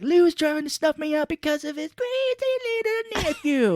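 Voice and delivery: high, loud frantic ranting; hammed-up paranoid shriek; paranoid Cage rant. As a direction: rattle it off like a hunted man.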